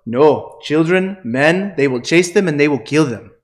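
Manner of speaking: put-on light Malawian accent; a hint of a Malawian accent. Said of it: "try not to go into the Malawian accent".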